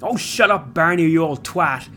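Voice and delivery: snapping back. A narrator's reading. Lorcan snaps back at Barney's memory, angrily. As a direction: shut up the taunting memory. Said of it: "he silently said".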